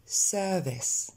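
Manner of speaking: "Service" ending in an è-like sound; pronunciation model. Shown as a demonstration. Teacher training learners on the E sound, pronunciation model. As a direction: say "Service" as SUR-vess, first syllable stressed. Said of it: "Encore une fois".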